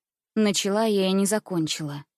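ordinary delivery, nothing marked

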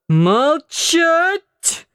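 put-on high, yelled drunken order; a drunk son yelling at his mother; drunken shout. A narrator's reading. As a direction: bark it out like a drunk sailor. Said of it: "закричал Антон".

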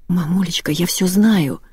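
usual speaking voice

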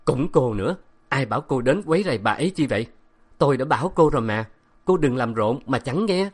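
fast, annoyed scolding; angry scolding. Acted. Professor scolding the girl in anger, quick and sharp. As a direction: rattle off the reproach. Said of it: "ông tròn xoe mắt giận dữ".

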